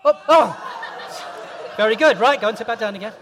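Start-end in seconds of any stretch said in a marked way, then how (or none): 0.0-1.7 surprised yelp. Real, not acted. Squirted by the water.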